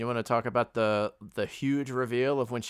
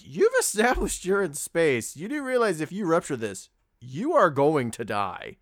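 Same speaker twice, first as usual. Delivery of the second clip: exasperated scolding; 5 semitones higher, 4 dB louder than usual. Retold or imitated. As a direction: spell it out like talking to a fool. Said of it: "and I was like".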